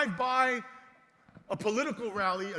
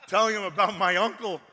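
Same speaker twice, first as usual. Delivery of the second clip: laughing; 3 semitones lower, 9 dB louder than usual. Real, not acted. Laughing at mother's bluff.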